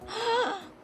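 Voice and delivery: high surprised gasp; sharp gasp. Real, not acted. Streamer gasping at a chat message, high sharp gasp. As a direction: gasp in mock shock.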